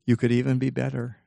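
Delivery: deliberate, with a long pause after "And"; measured, spaced-out delivery; really slowly. Shown as a demonstration. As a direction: hang on "And", then deliver it carefully. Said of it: "I'll say it really slowly".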